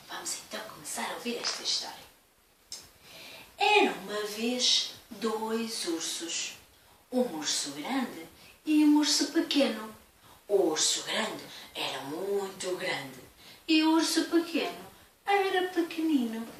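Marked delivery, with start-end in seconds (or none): 0.1-2.1 quick whisper. Acted. Hushed aside. 10.5-13.2 lower, deep big-bear voice. Acted. 13.7-16.5 higher, small voice; little bear voice. Acted.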